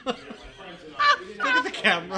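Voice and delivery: words squeezed out through laughter; can barely get it out for laughing; slow, laughing plea. Real, not acted. Laughing at funeral story.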